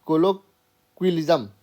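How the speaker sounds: कोलोक्विलिज्म sounded out slowly as ko-lo-kwi-li-zəm; carefully sounding out कोलोक्विलिज्म; slow careful pronunciation. Shown as a demonstration. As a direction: spell the word out with your mouth, slowly. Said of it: "थोड़ा सा कठिन है pronounce करना".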